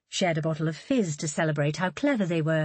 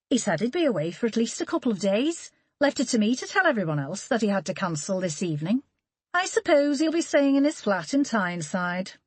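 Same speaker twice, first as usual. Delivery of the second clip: mild disapproval; 4 semitones higher than usual. Acted. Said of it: "A note of disapproval".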